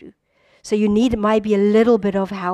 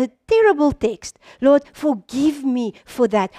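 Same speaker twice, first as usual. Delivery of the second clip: demo prayer; 2 semitones higher than usual. Shown as a demonstration. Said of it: "I have something to ask the Lord".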